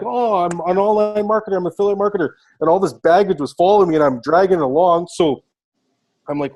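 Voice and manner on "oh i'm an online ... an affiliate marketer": mocking his old self. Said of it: "You're like".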